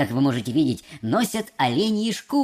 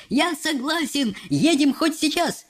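higher, excited mad cry; crazed yell; 7 semitones higher than usual. A narrator's reading. Chief accepts the offer, crazed yell. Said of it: "завопил, как сумасшедший".

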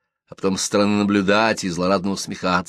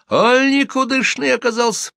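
very high-pitched gibe; crying out; 4 dB louder than usual. A narrator's reading. Sharp-tongued gossip mocks the widow's groom, crying out. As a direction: squeal the jibe. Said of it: "вскрикивает Милка Шутова".

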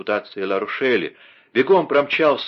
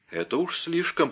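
mild indignant cry; 8 semitones higher, 5 dB quieter than usual. Acted. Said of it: "крикнул Бекингем".

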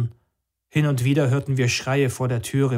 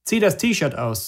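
higher and slow commanding voice; slow cold order; 5 semitones higher, slower than usual. Acted. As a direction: drag out the order coldly.

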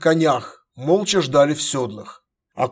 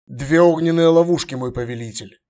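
respectful. Acted. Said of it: "почтительно сказал Фес".

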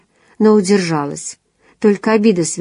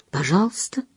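much softer breathed please; whispered; 8 dB quieter than usual. A narrator's reading. He lets her go, saying please much softer. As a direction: barely voice the word. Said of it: "прошептал он".

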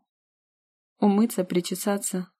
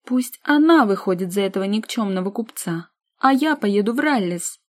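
stamp your foot, spoiled; spoiled sister demanding the trip; capricious; 2 semitones higher, 5 dB louder than usual. Acted. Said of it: "Сестрица капризно топнула ногой".

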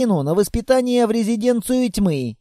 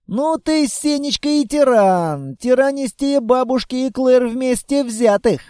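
girl's mock complaint; 5 semitones higher than usual. The girl sulkily calls the monster a tyrant, childish voice. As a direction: tease him like a sulky child.

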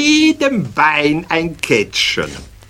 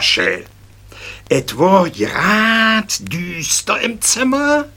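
thrilling tale; 8 semitones higher than usual. Acted. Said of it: "eine aufregende Geschichte".

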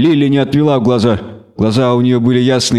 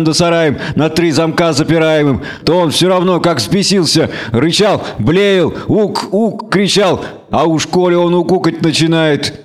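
lightly voiced rustic villager, a touch higher; a hint of a folksy village man; 5 semitones higher than usual. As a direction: peasant chatter, pitched up a little. Krapivka telling story.

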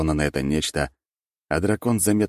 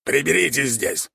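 rat lord voice; 10 semitones higher than usual. A narrator's reading. Lord orders servants.

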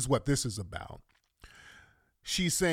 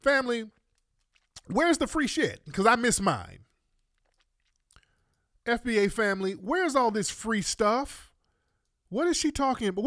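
high pitched disbelief to the audience; incredulous; 7 semitones higher than usual. Real, not acted. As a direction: appeal to the family in shock. Calls family, disbelieving the claim.

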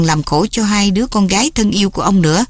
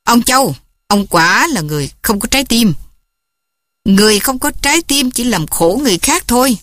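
mildly raised, accusing voice; young man scolding the cold father; raising his voice; 3 semitones higher than usual. Acted. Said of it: "Phúc lớn tiếng".

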